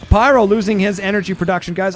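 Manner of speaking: strained, worn-out throat; hoarse voice. Real, not acted. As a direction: voice going hoarse. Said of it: "I am losing my voice big time here".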